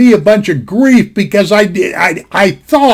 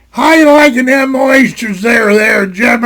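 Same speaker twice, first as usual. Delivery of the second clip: teasing shout; 4 semitones higher than usual. Retold or imitated. Friend's dad calling out to Jim at breakfast, teasing shout. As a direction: holler it like you're needling the kid about his breakfast.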